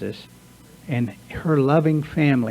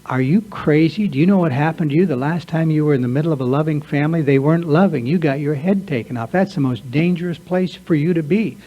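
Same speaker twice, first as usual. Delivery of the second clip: louder, urgent warning from the gut; alarmed inner voice; 2 semitones higher, 4 dB louder than usual. Acted. His subconscious warning him off a loving family, urgently alarmed. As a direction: sound the alarm like a panicked inner voice. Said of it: "my subconscious is going".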